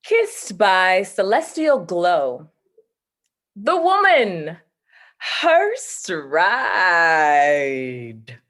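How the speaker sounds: slow, measured poetic reading; poem recital. Shown as a demonstration. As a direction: recite the stanza with long pauses. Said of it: "I'll close it with a poem stanza".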